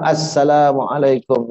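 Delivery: slow, measured prayer salam; evenly intoned greeting; proper salam. Shown as a demonstration. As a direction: demonstrate an unhurried closing salam.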